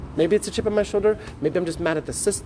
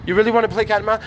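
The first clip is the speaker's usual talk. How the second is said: higher and louder, hammering it home; louder repeat; 4 semitones higher, 5 dB louder, faster than usual. Shown as a demonstration. Telling girls off about games, a louder repeat. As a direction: push the repeat harder.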